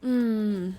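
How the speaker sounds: loud, drawn-out "mmm" of frustration; long loud frustrated hum. Real, not acted. Streamer wishing she could show viewers, frustrated hum. Frustrated groan at hidden item.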